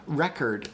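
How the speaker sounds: "Record" stressed first, second vowel reduced to schwa. Shown as a demonstration. Streamer showing the vowel change, "Record" with reduced second vowel. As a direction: relax the end of "Record" into an uh. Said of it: "the second syllable's vowel".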